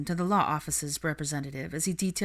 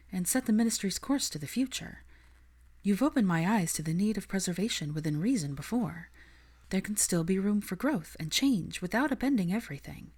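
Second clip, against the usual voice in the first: higher, earnest and idealistic; higher voice, passionate young woman; Hermione's voice; 3 semitones higher than usual. Acted. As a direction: plead the cause with conviction. Hermione speaks to Kingsley.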